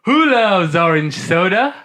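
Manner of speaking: rising call for the response; host cueing cohost, rising catchphrase call. Shown as a demonstration. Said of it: "We'll do it again".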